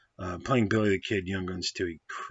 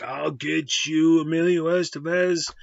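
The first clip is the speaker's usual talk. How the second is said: mock villain threat; 7 semitones higher, 5 dB louder than usual. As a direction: ham it up like a cartoon henchman vowing revenge. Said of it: "instead of being like".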